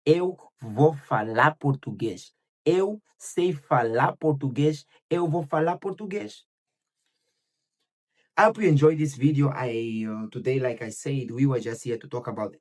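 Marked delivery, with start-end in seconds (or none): 0.1-6.4 slow affirmation. Shown as a demonstration. Teacher modelling a self-affirmation to repeat, slow. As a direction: repeat each phrase slowly, like a mantra. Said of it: "you say to yourself".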